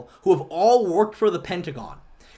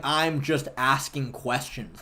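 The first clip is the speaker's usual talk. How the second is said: slow, low mocking mimic; sarcastic slow parody; mocking quote; 3 semitones lower, 5 dB quieter, slower than usual. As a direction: drawl the dodge back at him.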